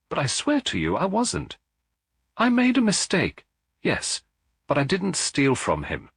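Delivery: a secretary accused of theft, pleading anxiously; flustered denial. Acted. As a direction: protest your innocence in a rush. Accused secretary denies embezzling.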